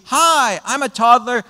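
put-on high, slow, proud little toddler voice; slow, high childish brag. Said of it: "They were doing it with basically".

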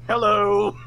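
high, loud theatrical greeting; Trazen the Infinite. Acted. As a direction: greet them as a hammed-up villain. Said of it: "Trazen the Infinite standing there like".

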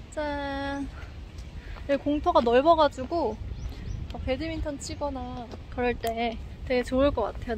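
muffled behind mask; speaking masked outdoors; through a face mask. Real, not acted. Seen 1: Speaker wears white surgical mask over mouth throughout walk.

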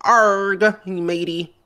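pirate voice. Pretend. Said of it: "Talking like a pirate day".

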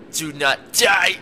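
slow, loud shouted command; shouted warning. Real, not acted. Gamer shouting at a companion mid-jump, slow loud warning. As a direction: shout it out word by word.

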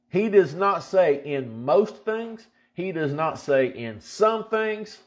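does and some set apart, slow; slow, pointed contrast; stress on does not. Shown as a demonstration. Preacher contrasting most and some with all, slowly. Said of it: "underline the word all".

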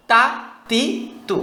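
"তা, তি, তু" each short and forceful; crisp, separate hard syllables; hard ta drill. Shown as a demonstration. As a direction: push out each t firmly, syllables set apart. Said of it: "শক্ত হলো".

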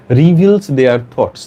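very slow, word-by-word reading; slow dictation. Shown as a demonstration. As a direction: spell out each phrase slowly for note-takers. Teacher rereading phrase to explain. (ধীরে ধীরে একেকটি শব্দ পড়া)

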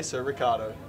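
"Ricardo" the Australian English way, with a k; English pronunciation. Shown as a demonstration. Explaining his surname, "Ricardo" said the English way. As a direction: say "Ricardo" straight, without Italian sounds. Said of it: "you'd say it the English way".

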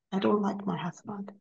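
hushed whisper, almost ashamed to say it; whispered confession. Retold or imitated. Praying to God, she admits she dislikes her husband in a whisper. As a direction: breathe the words out like a secret.

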